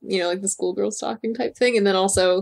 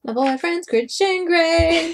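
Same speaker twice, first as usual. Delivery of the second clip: whiny sobbing mockery; mock crying; 7 semitones higher, much slower than usual. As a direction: wail it in fake tears. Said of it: "mocking the line".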